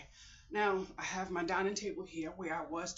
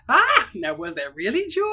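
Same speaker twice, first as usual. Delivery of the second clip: loud; 14 dB louder than usual. Real, not acted. Teasing herself at the sign-off.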